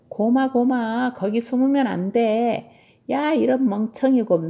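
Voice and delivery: alarmed scolding. Acted. Tilly catches her bear hiding in the wrong place, alarmed scolding. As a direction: call a wayward pet back, exasperated.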